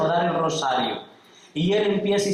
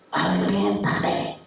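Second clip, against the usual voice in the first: much lower, breathy whispered repeat; 8 semitones lower, slower than usual. Acted. Captive repeats his plea to the kidnapper, whispered. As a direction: let it fall to a hushed whisper.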